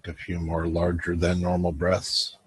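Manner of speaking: unhurried meditation guide with long pauses; calm guiding voice, leaving room to breathe; guided meditation. Acted. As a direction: lead them gently through a breathing visualization.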